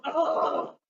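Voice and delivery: a pushing groan into the pillow; short strained groan; effortful groan. Shown as a demonstration. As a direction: let out a strained oh as you push. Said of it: "go, and make some noises".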